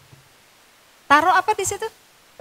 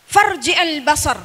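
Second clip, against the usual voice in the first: slow recitation; slower than usual. Shown as a demonstration. Teacher recites the verse to the mothers, slowly. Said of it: "Nih, perhatikan".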